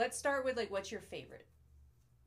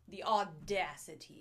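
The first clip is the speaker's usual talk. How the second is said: mock outrage; 6 dB louder, slower than usual. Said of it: "dramatic mock outrage".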